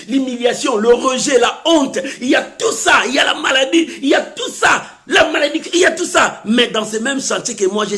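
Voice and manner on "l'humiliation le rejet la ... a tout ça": driving, repetitive sermon cadence; insistent preaching. Real, not acted. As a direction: list building steadily higher in pitch. Preaching a mounting list.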